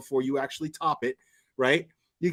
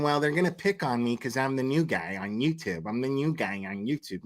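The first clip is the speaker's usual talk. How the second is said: mock victim, dropping lower and softer; playing victim; 4 semitones lower, 4 dB quieter than usual. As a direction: imitate someone feeling picked on. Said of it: "this dude playing victim and going".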